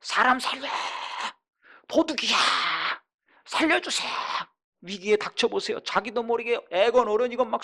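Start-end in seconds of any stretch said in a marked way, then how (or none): 0.0-4.1 loud, higher mock cry of someone in danger; panicked cry for help. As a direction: yell for help as if a thief broke in. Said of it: "괴로우면 소리 지르게 돼 있어요". (도와달라고 외치는 흉내)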